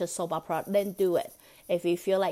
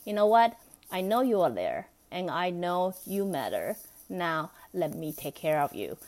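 kind reassurance. Shown as a demonstration. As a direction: comfort your inner child. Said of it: "change your face a little bit".

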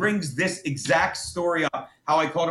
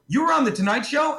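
mock incredulous; 6 semitones higher than usual. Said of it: "I would go".

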